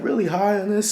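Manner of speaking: high, giddy self-quote; giddy disbelief. Retold or imitated. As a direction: ask it lifted and amazed. Quoting own giddy question.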